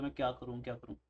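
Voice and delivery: low, soft murmur to oneself; low-voiced aimless pondering; idle musing. Acting out an idle student wondering.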